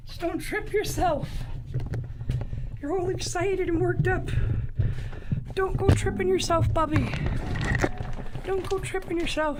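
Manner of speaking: loud playful scolding of the dog. Real, not acted. Warning excited dog, louder.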